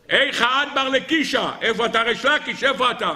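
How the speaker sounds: high-pitched, desperate cry for a lost friend; acted anguished wail, pitched high; distraught calling out. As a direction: call out frantically for your dead study partner. Bereaved rabbi gone mad calls out.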